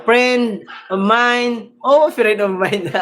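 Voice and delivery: slow, drawn-out imitation; B-Boy. Host copying a streamer friend, slow playful imitation. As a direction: stretch the words out in playful mimicry. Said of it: "Nagaya ko si B-Boy".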